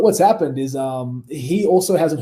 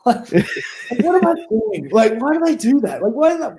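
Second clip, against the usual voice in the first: much higher-pitched mock dismay; mock panicked self-reproach; 12 semitones higher than usual. Wrestler kicking himself over his blunder, high mock panic. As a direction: squeal it like you're cringing at yourself. Retold panicked regret after insulting Nash.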